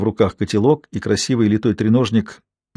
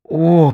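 moan; 6 semitones higher, 3 dB louder than usual. A narrator's reading. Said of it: "простонала она".

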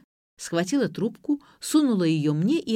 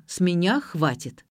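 usual speaking voice

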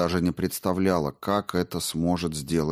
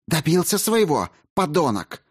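higher, sharp furious hiss; 9 semitones higher than usual. A narrator's reading. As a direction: spit the insult at him. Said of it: "прошипела Ольга".

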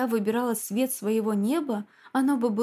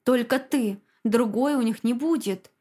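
insistent; 3 dB louder than usual. Acted. Husband insisting to wife.

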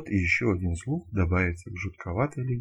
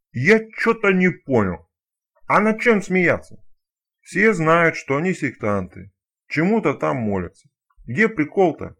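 puzzled stalker; 8 semitones higher, 8 dB louder than usual. Acted. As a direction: ask it like a confused, dim-witted stalker.

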